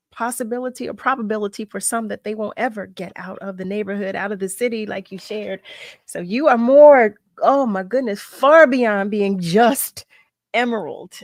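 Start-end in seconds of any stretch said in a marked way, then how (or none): 6.1-11.2 loud, slow, emphatic praise of her guest. Real, not acted. Host to guest, loud and slow in heartfelt praise. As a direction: lean into each word, full of feeling.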